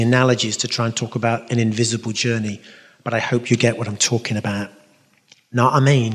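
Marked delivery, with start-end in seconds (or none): 5.5-6.1 casual London accent; quick, slurred London accent aside. Shown as a demonstration. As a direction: say it in loose London speech. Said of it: "It's my London accent".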